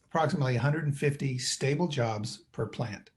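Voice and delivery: the word "stable" given a slight extra push; "stable" mildly emphasized, rest of the phrase even; stress on stable. Real, not acted. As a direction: lean a little on "stable" in "stable jobs". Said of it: "And I emphasize the word stable".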